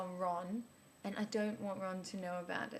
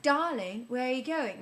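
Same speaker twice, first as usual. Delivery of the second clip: a touch louder and higher, calling after someone; lightly voiced lover; 4 semitones higher, 8 dB louder than usual. Man to woman creeping out of bed, lightly voiced call.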